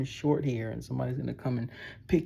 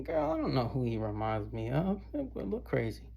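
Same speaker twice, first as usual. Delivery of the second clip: a friend dismissing him, pitched up at the end; gossiping girl. Retold or imitated. Imagined gossiping girls.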